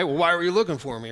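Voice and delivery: quick, flip smart-aleck comeback, lightly done. Retold or imitated. A twelve-year-old sassing his parents, fast and flippant. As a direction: toss it off like a cheeky kid. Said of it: "sort of smart aleck".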